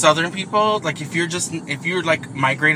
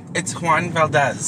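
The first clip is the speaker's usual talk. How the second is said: hint of Spanish accent. Shown as a demonstration. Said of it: "a little hint on the, the accent".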